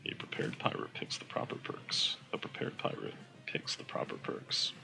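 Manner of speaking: soft, near-whispered tongue twister; hushed, unvoiced rehearsal of the phrase; under the breath. Shown as a demonstration. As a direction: practise it quietly to yourself.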